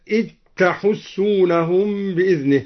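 إذ تحسونهم run together as "it-tahussunahum"; dhal merged into ta. Shown as a demonstration. Teacher showing al-Duri's reading, إذ تحسونهم as "it-tahussunahum". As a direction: turn the dhal of إذ into a doubled t. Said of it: "وأدغم الذال في التاء".

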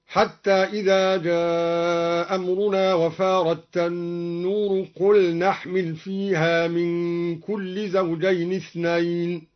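slow, measured Quranic recitation. Shown as a demonstration. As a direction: recite the verse slowly with tajweed. (تلاوة مرتلة بطيئة)

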